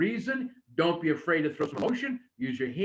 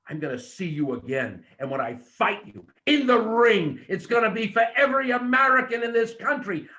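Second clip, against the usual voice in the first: wrestling promo demo; 4 dB louder than usual. Shown as a demonstration. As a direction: build from calm to loud ring challenge. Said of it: "you should have slowly come back and said".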